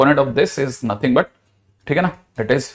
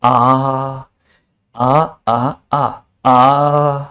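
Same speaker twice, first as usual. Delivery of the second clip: three drawn-out mock aah cries; 3 semitones lower, much slower than usual. Shown as a demonstration. Teacher acting the vector crying out, drawn-out mock aah. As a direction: cry out aah three times, stretched long. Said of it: "वो तीन बार चिल्लाएगा".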